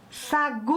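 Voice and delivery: "Sagu" called out with a long drawn-out final "gu"; calling the word. Shown as a demonstration. Teacher showing the stressed syllable to pupils, calling out. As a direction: call "Sagu", stretching the last syllable. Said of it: "Olha a sílaba tônica".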